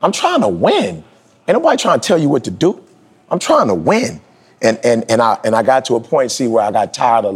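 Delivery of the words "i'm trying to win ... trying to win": high, pleading insistence; retold earnest plea, pitched high; insistent coach. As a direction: push it like a coach who wants you to win. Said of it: "Dee Dee was like".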